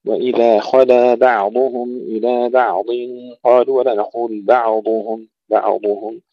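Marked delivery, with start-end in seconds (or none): 0.0-2.8 slow recitation, thin b and vowelless ayn in بعضهم; heavy خ, light b, unbounced ayn in بعضهم; light ba, still ayn. Shown as a demonstration. Teacher modelling the verse, careful slow بعضهم. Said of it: "ترقيق الباء، تسكين العين". 4.4-6.2 بعضهم with an echo after the ayn; the mistake: release the ayn of بعضهم with a bounce; bounced ayn. Shown as a demonstration. Teacher showing what not to say, bounced ayn in بعضهم. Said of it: "نقلقل العين".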